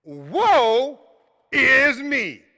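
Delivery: slow, heavy woe is me; drawn-out lament. Shown as a demonstration. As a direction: drag it out like a lament. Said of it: "Think about that".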